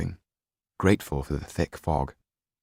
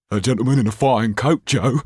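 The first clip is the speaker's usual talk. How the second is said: rat-like leer, loud and higher; sly rat-like thug voice; 5 semitones higher, 7 dB louder than usual. Acted. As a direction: leer at the rich victim. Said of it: "leered the rat-like creature".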